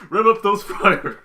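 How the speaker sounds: a cartoon background fish shouting his one line; SpongeBob background character. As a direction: bellow it like a goofy cartoon fish extra. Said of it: "look like a SpongeBob, uh, background character".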